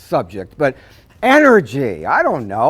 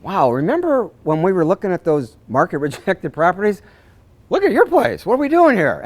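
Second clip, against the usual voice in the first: mock amazement; 3 semitones higher than usual. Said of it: "I can go".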